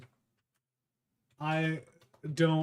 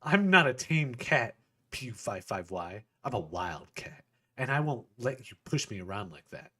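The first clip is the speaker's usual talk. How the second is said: firm and resolute; 5 dB louder than usual. Acted. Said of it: "her voice firm and resolute".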